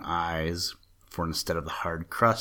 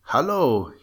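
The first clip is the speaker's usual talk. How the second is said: higher, louder hail from a flying ship; called out; 6 semitones higher, 4 dB louder than usual. A narrator's reading. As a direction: call down to a man far below. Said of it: "he called out".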